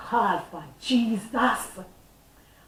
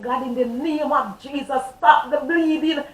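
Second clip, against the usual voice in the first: crying out to God; 4 semitones higher, 4 dB louder than usual. Retold or imitated. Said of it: "I start to cry out".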